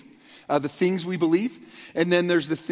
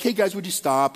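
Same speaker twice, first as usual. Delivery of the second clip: gentle. Retold or imitated. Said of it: "pretty gentle".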